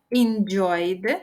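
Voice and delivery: slow, stretched "Enjoyed" with a rising end; drawn-out model word. Shown as a demonstration. Teacher showing learners the past form, drawn out.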